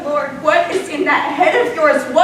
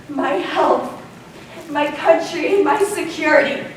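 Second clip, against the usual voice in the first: tender plea; 2 semitones lower, 5 dB quieter than usual. Acted. Wife's tender plea to husband.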